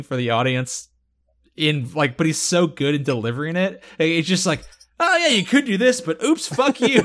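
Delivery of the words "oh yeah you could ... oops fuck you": high, sing-song smug taunt; mock villain taunt. Gloating villain taunting Jack, high and smug. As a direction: tease him like a gloating villain.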